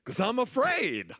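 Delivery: high, loud mock Jamaican cry; hammed-up fear in a Jamaican accent. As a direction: wail it slowly as an imitated Jamaican sister. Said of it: "She had a Jamaican accent".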